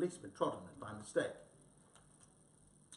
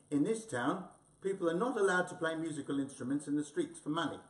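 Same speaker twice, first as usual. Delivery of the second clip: stern policeman; 3 semitones higher, 5 dB louder than usual. Acted. Policeman lays down the law.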